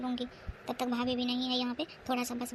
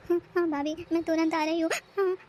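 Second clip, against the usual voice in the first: crying; 4 semitones higher, 5 dB louder than usual. Acted. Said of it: "अब ज़्यादा रो के मत दिखा".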